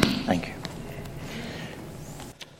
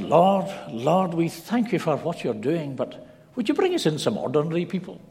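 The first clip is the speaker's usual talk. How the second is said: higher-pitched imitated prayer, slowing into a plea; old man praying; 4 semitones higher than usual. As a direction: mimic an old churchgoer's comic plea to God. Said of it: "the prayer changed".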